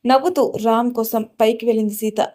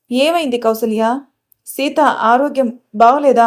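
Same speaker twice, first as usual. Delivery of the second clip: slow, anxious and a bit louder; worried slow question; 5 dB louder, slower than usual. Acted. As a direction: drag the words out with concern. Grandmother worried about Seetha.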